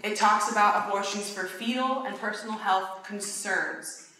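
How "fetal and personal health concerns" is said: CONCERNS drawn out slowly at the end; slow down to land on "concerns"; stress on concerns. Real, not acted. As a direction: lean on the word "concerns". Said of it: "Emphasis on the word concerns".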